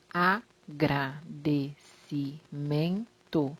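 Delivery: agradecimento said very slowly, each syllable pulled apart; teacher dragging out agradecimento syllable by syllable; spelled out by syllables. Shown as a demonstration. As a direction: break agradecimento into its syllables for the class. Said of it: "Por exemplo".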